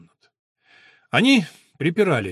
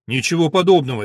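decisive, louder cut-in; firm interruption; 3 semitones higher, 6 dB louder, faster than usual. Acted. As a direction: shut them down firmly. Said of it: "решительно вмешалась Теодора".

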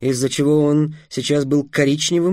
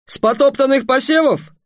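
high incredulous question; indignant surprise; 11 semitones higher, 3 dB louder than usual. A narrator's reading. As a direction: ask it stunned and outraged. (возмущённое удивление)

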